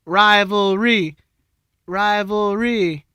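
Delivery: stretched hype. Pretend. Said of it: "drawn-out hype word".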